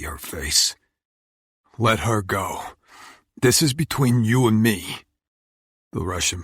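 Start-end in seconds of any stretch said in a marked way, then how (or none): 1.8-5.0 tense demand. Acted. Hero confronts Oleg.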